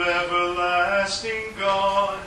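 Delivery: ordinary talk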